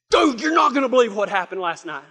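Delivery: excited retold phone call; excited neighbor. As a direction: blurt it out like an amazed buddy.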